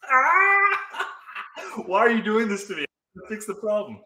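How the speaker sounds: high squealing laugh-cry; laughing whine. Real, not acted. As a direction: wail it out while laughing. Mock despair over broken audio.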